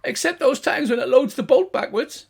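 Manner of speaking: second gnome undercutting the boast; gnome sidekick. Acted. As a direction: undercut your mate. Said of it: "And his mate goes".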